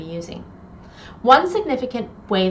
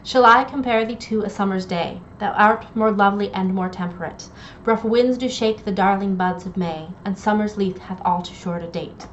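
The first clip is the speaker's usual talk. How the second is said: poem reading. Acted. Reads Shakespeare sonnet aloud.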